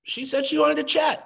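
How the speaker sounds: high-pitched imitation of amazement; retold wide-eyed "oh wow" voice; mock surprise. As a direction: act astonished that someone said yes. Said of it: "and we act surprised".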